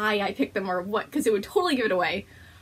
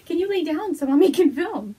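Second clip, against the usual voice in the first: talking to the dog; 6 semitones higher, 7 dB louder than usual. Real, not acted.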